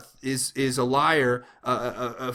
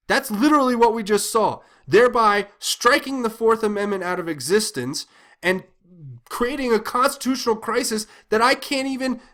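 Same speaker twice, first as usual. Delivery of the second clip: higher-pitched, exasperated outburst; frustration; 5 semitones higher than usual. Real, not acted. Ranting at viewers about the judge, frustrated and higher. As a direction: pitch climbing as the outrage boils over. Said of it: "you can probably hear the frustration in my voice".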